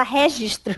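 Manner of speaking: "registro" with an open, leaned-on RÉ; mimicked pronunciation. Recalling the argument, "registro" said RÉ-gistro. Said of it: "ela falava que eu falava".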